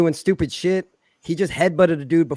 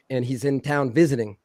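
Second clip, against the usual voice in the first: normal talking voice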